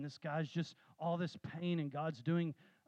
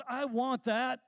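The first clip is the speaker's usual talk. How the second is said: put-on high, louder, grabby girl's quote; eager demand; 7 semitones higher, 6 dB louder, slower than usual. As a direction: blurt it out like she has to have it. Girl pushes in on street prayer.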